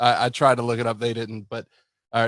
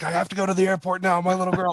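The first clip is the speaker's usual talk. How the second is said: frantic, desperate, high-pitched, freaked-out panic; 8 semitones higher than usual. Retelling a coworker's panic after his daughter was trapped: imitating Brian freaking out. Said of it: "he's going nuts".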